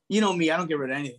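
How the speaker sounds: laughing fast through the admission, half shouting; said through a real laugh, quick and loud; self-mocking laughing confession. Real, not acted. Joking about his hoarding.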